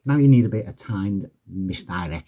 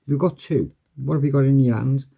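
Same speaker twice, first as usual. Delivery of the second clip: mock-amazed patter; 6 semitones higher than usual. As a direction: play up the surprise for the spectator. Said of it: "You say".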